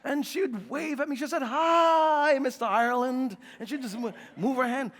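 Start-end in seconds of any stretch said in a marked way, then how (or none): 1.4-3.4 lightly imitated teacher's drawn-out greeting; pre-K teacher. Teacher greets a dad at pre-K pickup, mock sing-song. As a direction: talk to an adult as to a small child. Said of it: "the teacher would talk to you as you were a pre-K".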